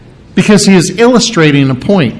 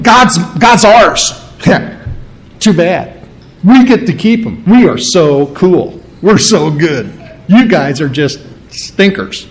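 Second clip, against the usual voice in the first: lightly hammed-up smug bragging; mocking boast. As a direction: sneer like a proud child bragging. Mocking the proud Jews.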